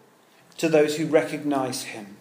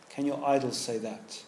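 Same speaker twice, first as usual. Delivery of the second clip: hushed repeat; 5 semitones lower, 11 dB quieter than usual. Real, not acted. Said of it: "my question is".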